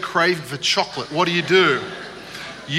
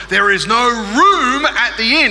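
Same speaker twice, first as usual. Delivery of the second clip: put-on slow, higher and louder kid recitation; practising the line; 6 semitones higher, 5 dB louder than usual. Boy at his mirror, practising loud and slow. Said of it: "he would go over his line".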